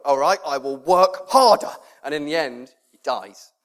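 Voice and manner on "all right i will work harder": Boxer. Acted. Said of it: "that's his thing all the way through".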